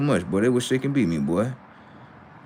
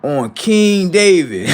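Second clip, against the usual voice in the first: laughing mock oath; 6 semitones higher, 4 dB louder, slower than usual. Mocking chat swear.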